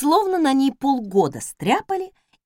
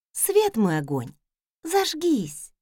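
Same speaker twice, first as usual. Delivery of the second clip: tender coo; 2 semitones higher, slower than usual. Acted. Mistress coaxes the stove tenderly, cooing. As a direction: coax the stove like a pet. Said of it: "ласково проворковала".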